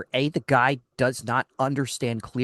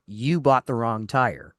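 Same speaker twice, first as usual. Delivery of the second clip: slow retold blame with "You" emphasized; stress on YOU; 2 semitones lower than usual. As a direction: lean on the word "You", accusingly. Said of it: "put the emphasis on the word you".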